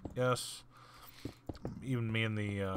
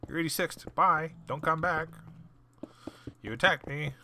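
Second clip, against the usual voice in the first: much higher, louder banning; stern ejection; 7 semitones higher, 4 dB louder than usual. Retold or imitated. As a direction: throw him out with finality. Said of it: "but, like".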